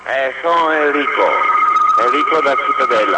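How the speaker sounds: caller on a phone line; thin telephone sound; over the phone. Real, not acted. Caller phones into radio show.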